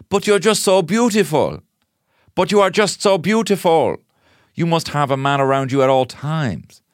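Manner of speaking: high, drawn-out mock adoration; hammed-up swooning flattery; over-the-top gushing. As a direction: gush slowly in a lifted, theatrical voice. Gushing widower chat-up line acted out.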